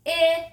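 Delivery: 'ih' held long on a high level note; short I sound. Shown as a demonstration.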